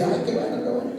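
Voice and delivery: high, soft mock squeal of delight; imitated excitement. Friend thrilled he likes Noemí, imitated excitement. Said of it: "y bien emocionada".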